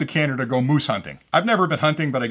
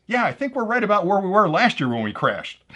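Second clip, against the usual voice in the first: laughing through punchline; 4 semitones higher than usual. Real, not acted.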